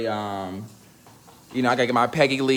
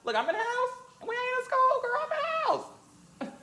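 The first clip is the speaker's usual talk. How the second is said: sassy retort; 14 semitones higher, faster than usual. Retold or imitated. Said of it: "I said".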